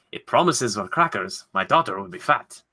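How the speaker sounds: a lightly put-on bad Russian accent. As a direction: fumble a Russian landlord accent. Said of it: "That was kind of a bad accent".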